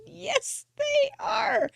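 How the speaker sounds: retold proud reply, pitched far up; proud chirpy yes. Answering the clerk about her cards, proud and high. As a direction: sing it out, delighted with herself.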